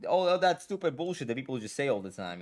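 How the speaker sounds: hammed-up eager agreeing, slow on all inclusive; sarcastic parody of a people-pleaser; mock inclusive pandering. Streamer mocking the pandering he refuses to do, hammed-up eager voice. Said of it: "if all I did was like".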